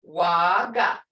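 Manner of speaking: "Waga" loud, with a long first "ah"; marked tones. Shown as a demonstration. Teacher repeating for students to hear, marked tones. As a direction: hold the first syllable of "Waga" firmly. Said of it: "Hear those tones?".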